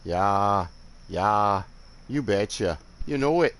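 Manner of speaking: put-on cheerful, agreeable Northern Midwest accent; light mock Northern Midwest accent. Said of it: "Lots of yas".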